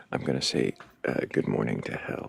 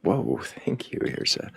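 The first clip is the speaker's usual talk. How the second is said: surprised; 12 semitones higher than usual. Real, not acted. Reacting to a sudden donation.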